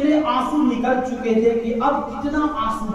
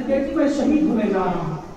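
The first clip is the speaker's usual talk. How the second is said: gentle telling; 3 semitones lower than usual. Acted. Father gently tells his little daughter he will die. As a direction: break it gently to a child. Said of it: "मौला हुसैन कहते".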